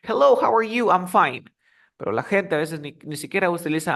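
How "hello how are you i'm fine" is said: textbook greeting. Retold or imitated. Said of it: "nos dicen".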